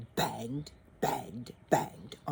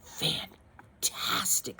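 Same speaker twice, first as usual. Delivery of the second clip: whispered praise; 5 semitones lower, much slower than usual. Acted. Elizabeth flattering dragon.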